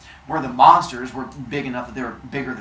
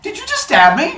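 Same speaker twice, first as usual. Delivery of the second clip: stabbed father; 8 dB louder than usual. Acted. Father Sky just stabbed.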